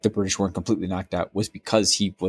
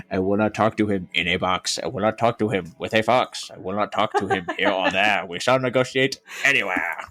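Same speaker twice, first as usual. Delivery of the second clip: Dr Seuss style Churchill. Retold or imitated. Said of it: "Doctor Seuss book".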